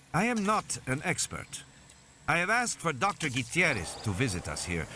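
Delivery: a hint of a formal, deferring doctor; lightly voiced doctor. Doctor telling parents about a visiting researcher, lightly voiced doctor.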